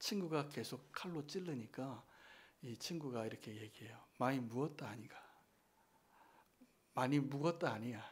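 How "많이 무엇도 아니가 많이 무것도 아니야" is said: badly faked Korean regional dialect. Quoting a movie character's line after being stabbed: imitated regional dialect. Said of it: "사투리를 제가 잘 흉내를 못 내".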